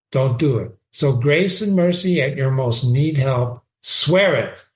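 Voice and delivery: reading Shakespeare aloud with feeling; dramatic reading. Acted. Teacher reading Horatio to the class, dramatic reading. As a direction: give Horatio's line a lively read. Reads Hamlet's speech.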